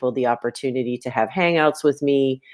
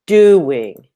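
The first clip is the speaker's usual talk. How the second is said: "Doing" with a loud, high first syllable; DO-ing, punch "Do" and drop "ing"; trochaic stress; 4 semitones higher, 6 dB louder than usual. Shown as a demonstration. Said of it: "This really is definitely trochaic".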